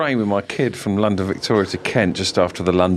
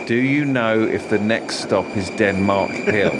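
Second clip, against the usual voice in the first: clearly enunciated; 4 semitones higher than usual. Retold or imitated. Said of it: "quite fucking clearly said".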